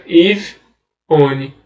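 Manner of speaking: Ivone with a long final vowel; drawn-out reveal. Shown as a demonstration. Teacher revealing the riddle answer, drawn out. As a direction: stretch Ivone out as the punchline. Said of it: "Como é que fica?".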